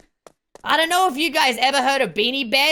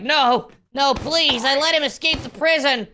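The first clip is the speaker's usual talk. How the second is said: lightly acted villain pleading; Evil Labubu; 2 semitones higher than usual. Evil toy begging God for mercy, mock pleading. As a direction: plead your case, half in character. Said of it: "then evil Labubu's like".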